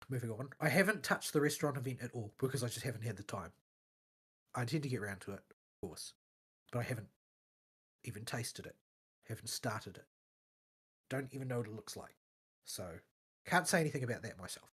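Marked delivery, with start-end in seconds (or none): 5.5-14.7 talking through a blocked nose; clogged sinuses, stuffy voice. Real, not acted. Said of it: "my sinuses are completely clogged".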